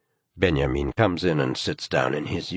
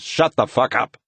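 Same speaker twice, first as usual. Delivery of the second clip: yelling; 7 semitones higher, 5 dB louder than usual. A narrator's reading. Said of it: "he yells".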